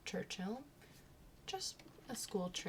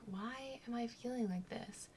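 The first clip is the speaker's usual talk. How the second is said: softer, half-whispered complaint; queasy murmur; 3 semitones higher, 5 dB quieter than usual. Retold or imitated. Standing in rank, feeling sick, a soft half-whisper. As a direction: groan it quietly under your breath. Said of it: "I started to feel sick".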